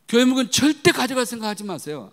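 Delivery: high, loud forceful command; emphatic warning. Real, not acted. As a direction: hammer the warning home. (힘주어 높고 크게 경고)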